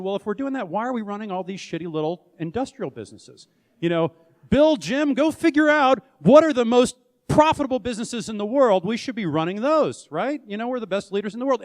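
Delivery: hammed-up bravado, sending people off to find profits; cocky excitement.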